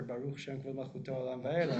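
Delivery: soft whispered line. Shown as a demonstration. Rabbi showing the quiet line after Echad, whispered softly. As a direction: breathe it out in a whisper. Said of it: "I whisper".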